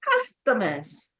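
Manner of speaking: slow "Customers", strongest on CUS; careful demo of "Customers", stressed on CUS; stress on first syllable. Shown as a demonstration. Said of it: "Stress on the first syllable".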